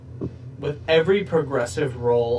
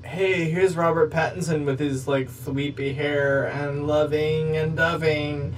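mocking sappy romance; slower than usual. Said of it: "it's not".

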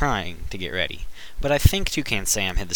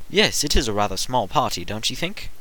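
fairy godmother voice. Acted. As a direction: gush like a fussy fairy godmother. The speaker continues hosting.

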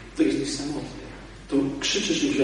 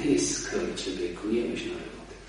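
put-on possessed boy's voice; 7 semitones lower, 7 dB quieter than usual. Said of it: "A on mówi". (opętany chłopak do egzorcysty, nisko, powoli i groźnie)

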